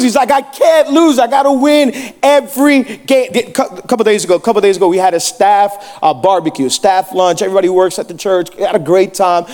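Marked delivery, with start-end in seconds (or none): 0.3-3.3 higher-pitched mock desperation; imitated competitive nephew. Nephew who can't stand losing, imitated insistent whine. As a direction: act out a child who must win. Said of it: "he can't lose".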